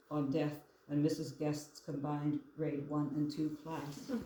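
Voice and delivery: measured poetry recital, line by line; poem reading. Acted. Poet reads childhood fish poem to audience, measured recital. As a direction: read your poem aloud with deliberate phrasing and pauses.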